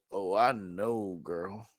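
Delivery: a hint of a smug stud; smug Omar. Omar agreeing with Sally, low and smug. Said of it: "Omar goes".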